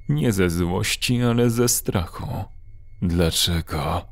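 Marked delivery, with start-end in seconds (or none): 3.0-4.0 a lower, slow, strange-voiced "Dlaczego?" drawn out and rising; mild creature roar asking "Dlaczego?"; monster's roar. A narrator's reading. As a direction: groan "Dlaczego?" slowly like a creature neither male nor female. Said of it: "Ryknął głosem, który nie był ani wyraźnie męski, ani żeński".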